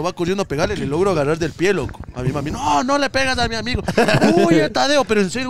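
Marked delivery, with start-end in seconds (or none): 2.5-3.8 high-pitched pleading protest; retold protest. Daughter defending her friend from mother, high protest. Acted plea during a fight. 4.4-5.0 high mock cry to flee; urgent retold cry. Telling Tadeo to run from mother, urgent high cry.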